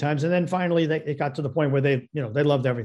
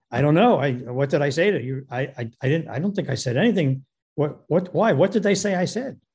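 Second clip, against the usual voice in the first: retold defensive stammer, tripping over the first words. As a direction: protest innocence in starts and restarts, rising on the last question. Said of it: "very defensively".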